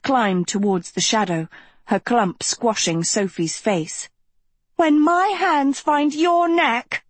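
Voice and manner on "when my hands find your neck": slow, high-pitched wail of fury; furious threat. A narrator's reading. One girl threatens the other mid-fight, furious cry.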